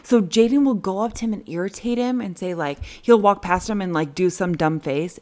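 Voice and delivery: normal talking voice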